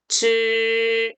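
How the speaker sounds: 즈 held long with an r-coloured curl; retroflex zhi. Shown as a demonstration. Teacher models the correction, curled-tongue 즈. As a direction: curl the tongue slightly through a level 즈. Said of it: "리을 혀 조금만 말아서".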